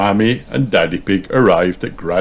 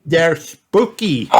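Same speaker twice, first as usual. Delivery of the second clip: Peppa; 10 semitones higher, 3 dB louder, slower than usual. A narrator's reading. Peppa corrects Grandpa, voiced.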